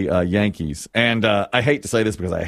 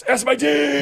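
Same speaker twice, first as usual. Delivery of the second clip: high-pitched crude holler, played for laughs; mock taunting yell; slower than usual. Imitating a player pointing at his teammates, mock taunting yell. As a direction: holler it like a cocky ballplayer.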